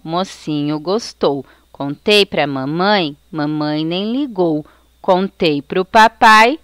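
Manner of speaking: put-on measured, lilting children's rhyme; nursery rhyme recitation. Shown as a demonstration. Teacher reciting a parlenda as an example for pupils, lilting recitation. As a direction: recite it in short rhythmic phrases.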